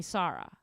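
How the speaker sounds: "Sarah" with an open "ah" in the first syllable; "Sarah" with a long, open first A; home-culture pronunciation. Shown as a demonstration. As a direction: say "Sarah" as SAH-ra. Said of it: "in my culture, my friends call me".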